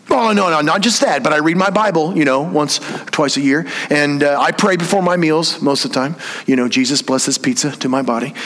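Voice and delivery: smug churchgoer. Retold or imitated. Mock self-satisfied churchgoer.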